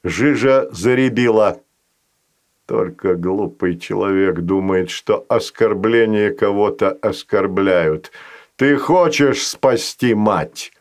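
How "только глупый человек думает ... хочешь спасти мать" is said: low, slow and knowing; a patient creature striking a deal; slow sly monster voice. Acted. Fazanol voice.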